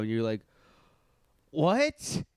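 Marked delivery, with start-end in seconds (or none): 1.5-2.2 higher, incredulous "what"; baffled mock reaction. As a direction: imitate a friend caught off guard. Retelling friend's baffled reaction.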